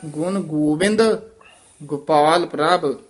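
ਗੋਪਾਲ with a short u sound and ਗੋਬਿੰਦ with a long o; ਗੋਪਾਲ ਔਂਕੜ, ਗੋਬਿੰਦ ਹੋੜਾ; careful vowels. Shown as a demonstration. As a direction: say ਗੋਪਾਲ as gupal, ਗੋਬਿੰਦ as gobind. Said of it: "ਗੋਪਾਲ ਔਂਕੜ ਨਾਲ ਹੈ".

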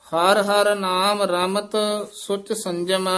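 intoned line halting after ਰਮਤ; brief pause after ਰਮਤ. Shown as a demonstration. Teacher showing students a short halt after ਰਮਤ, intoned. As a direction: hold ਰਮਤ, pause, then go on to ਸੁਚ. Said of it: "ਰਮਤ ਪਦ ਤੇ ਠਮਕ ਲਾ ਦਿਓ".

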